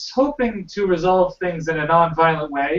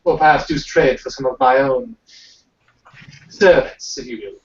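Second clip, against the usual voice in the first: put-on British accent. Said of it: "Can I do British accent now".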